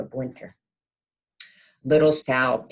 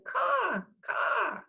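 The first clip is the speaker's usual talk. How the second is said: very high cawing crow call; 4 dB quieter than usual. Acted. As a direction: squawk it like a crow.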